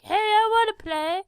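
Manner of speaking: put-on high-pitched childish plea; pirate asks to join the fun, high and giddy. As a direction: squeak it like an eager kid. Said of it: "the pirate ... is like".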